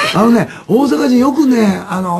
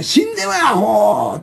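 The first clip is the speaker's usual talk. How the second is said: mock angry insult; 2 semitones higher, slower than usual. Shown as a demonstration. Giving examples of Osaka insults, mock angry. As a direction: play at cursing someone out.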